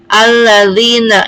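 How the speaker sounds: slow "alladzina" with a held double l; doubled lam. Shown as a demonstration. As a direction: recite "alladzina" drawn out, lingering on the ll. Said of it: "lamnya double".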